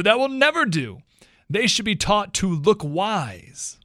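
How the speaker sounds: storybook animals yelling, hammed-up. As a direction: protest like an indignant schoolboard animal. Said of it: "yelled the other two".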